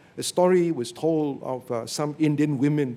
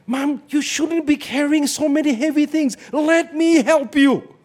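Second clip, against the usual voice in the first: caring son; 10 semitones higher, 6 dB louder than usual. Retold or imitated. Kind son offers mother help.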